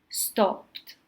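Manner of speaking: "stopped" ending in a crisp T; one syllable, "stopped" said as "stopt"; final T sound. Shown as a demonstration. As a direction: finish "stopped" on T, no E vowel. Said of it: "we pronounce it with a T".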